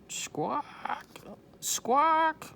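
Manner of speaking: high, loud squawking bird; parrot squawk. A narrator's reading. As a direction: screech it like a parrot. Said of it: "she squawked".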